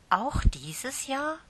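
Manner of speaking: hoch und langsam, „Jahr“ steigt fragend an; hoffnungsvoll. Acted. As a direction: hoffend nachfragen, Stimme geht nach oben. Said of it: "fragte Lieschen hoffnungsvoll". (Lieschen fragt die Tante voller Hoffnung)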